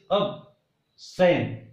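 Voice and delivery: "absent" said ab-SENT, slowly split, second part strong; weak ab, then a long strong SENT in "absent"; stress on second syllable. Shown as a demonstration. Teacher shows the verb absent, stressed on SENT. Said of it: "first syllable becomes weak and second becomes".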